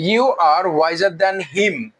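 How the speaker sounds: very slow, him form; slow spoken variant. Shown as a demonstration. Teacher contrasting the informal him version, slowly. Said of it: "আমরা him দিলেও কোনো সমস্যা নাই".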